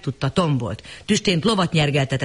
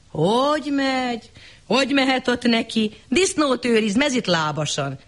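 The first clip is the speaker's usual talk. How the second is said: mock angel; 8 semitones higher than usual. Fake angel to the lady, mock sorrowful. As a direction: sigh it out as bad news.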